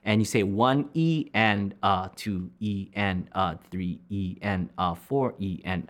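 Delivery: slow, even beat count. Shown as a demonstration. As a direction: count slowly and clearly. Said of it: "So it's going to be".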